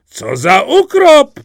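slow, high, booming outcry; loud exclamation. A narrator's reading. Simple Jack rides into the salon, loud exclamation. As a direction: call out about the heat with gusto. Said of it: "zawołał".

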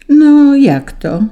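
high, loud, drawn-out protest; little star's voice. A narrator's reading. The first star answering Saint Peter, high protesting voice. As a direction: answer up high, indignantly stretched. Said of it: "usłyszeli w odpowiedzi".

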